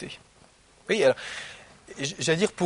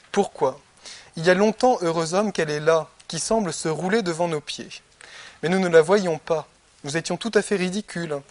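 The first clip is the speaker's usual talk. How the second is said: a slightly louder, measured reading of the dialogue; reading Plato aloud; 3 dB louder than usual. Acted. Teacher reading the Republic to his students, in a measured reading voice. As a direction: read the text to the class with care.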